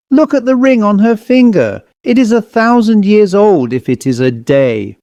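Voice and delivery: thrilled, pointing out a treasure; excited cry. Acted. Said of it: "he cried".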